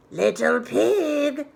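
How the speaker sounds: slow, drawn-out sly greeting; sly wolf. Acted. Wolf greeting the pig in the apple tree, slow and sly. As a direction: stretch it out, scheming.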